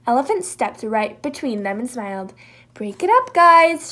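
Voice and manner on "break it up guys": higher, louder firm call; breaking up a fight. Acted. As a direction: Elephant stepping between Moose and Jackal, loud. Elephant stopping a fight.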